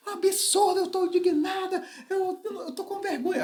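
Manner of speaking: high, outraged mock wife's voice; indignant wife. The wife calls the pastor to complain, high indignant voice. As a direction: play the offended wife, voice pitched high.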